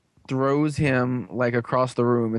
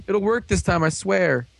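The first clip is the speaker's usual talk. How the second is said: mock insistent villain; 7 semitones higher than usual. Villain insisting on repeated plan.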